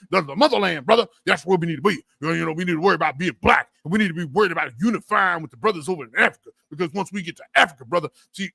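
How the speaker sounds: fast, mock-preachy brother-talk; lightly voiced Pan-Africanist recruiter pitching the motherland. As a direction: rattle it off like a smooth recruiter. Parodying a Pan-Africanist speaker.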